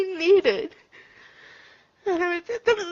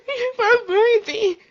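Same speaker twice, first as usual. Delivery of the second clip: crying; 5 semitones higher, 4 dB louder than usual. Real, not acted. Crying retelling the Lord's words.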